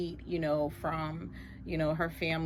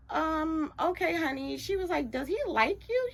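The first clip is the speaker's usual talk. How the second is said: probing mother; 9 semitones higher than usual. Retold or imitated. Mother asking about the boy.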